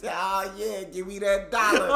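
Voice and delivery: mock black guy voice. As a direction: ham up the joke voice. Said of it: "Black guy voice".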